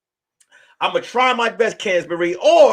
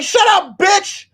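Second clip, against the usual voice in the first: high, loud imitated shout; hammed-up fanboy rage; mock furious yell; 13 semitones higher, 5 dB louder, slower than usual. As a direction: yell it like an outraged fan in a chat fight. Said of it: "he was like".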